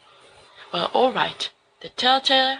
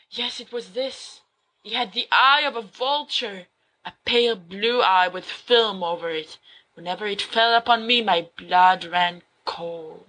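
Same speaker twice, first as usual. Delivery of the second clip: dramatic story reading; 2 semitones lower than usual. Acted. Remus reads Poe to his friends, dramatic gothic narration. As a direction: read Poe like a madman confessing.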